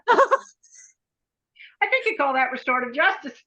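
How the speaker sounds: slow, chuckling through the punchline; a slow tease with laughter in the voice; laughing. Real, not acted. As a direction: laugh it out as you joke.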